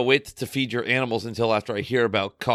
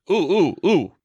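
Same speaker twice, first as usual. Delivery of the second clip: excited; 6 semitones higher, 4 dB louder, slower than usual. Real, not acted. Eager for the news.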